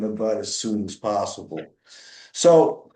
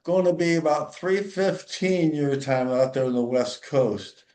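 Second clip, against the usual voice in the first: eager receptionist; 3 semitones higher than usual. Retold or imitated. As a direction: play the chirpy young lady taking the call. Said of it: "He says".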